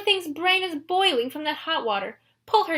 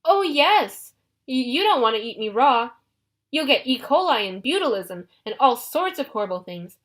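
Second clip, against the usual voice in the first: panicked babble; 2 semitones higher than usual. Acted. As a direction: talk fast to save your skin. Grover babbles to save himself.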